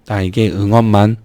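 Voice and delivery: usual speaking voice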